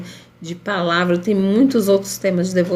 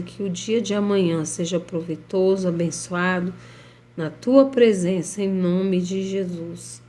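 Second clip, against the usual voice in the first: prayer. Acted. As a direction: pray earnestly over the listeners. Leads a live prayer.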